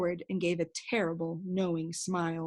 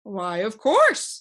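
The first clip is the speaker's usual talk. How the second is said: cheerful; 9 dB louder, slower than usual. A narrator's reading. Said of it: "said the humbug cheerfully".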